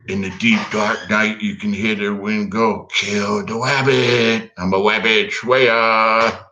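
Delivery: lightly voiced Elmer Fudd, slow and lisping; hint of a cartoon hunter, drawn out. Asked for an Elmer Fudd impression, slow lisping cartoon voice. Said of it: "do you have an Elmer Fudd impression?".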